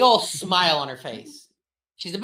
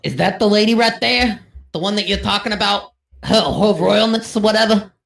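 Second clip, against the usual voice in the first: louder offhand orc question; 2 semitones higher, 7 dB louder than usual. Acted. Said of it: "be like".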